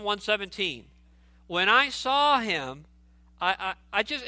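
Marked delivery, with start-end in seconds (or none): 1.5-2.8 slow, hushed awe on "When I saw him"; reverent surrender. Acted. Pastor reliving John's surrender before Jesus, slow and reverent. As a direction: let each word fall in worship, slowly. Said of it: "it's like a total surrender".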